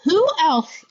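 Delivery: talking around a pen in the mouth; words muffled by a pen held in teeth. Real, not acted. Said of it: "I'm talking with a pen in my mouth".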